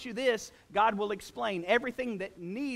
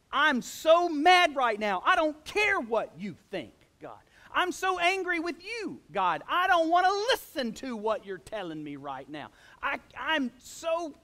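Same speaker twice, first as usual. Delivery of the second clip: frustrated angry prayer; 4 semitones higher, 4 dB louder than usual. Retold or imitated. Pastor voicing an angry believer shouting at God, mock frustration. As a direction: vent like a believer fed up with God. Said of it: "the fire of frustration and anger".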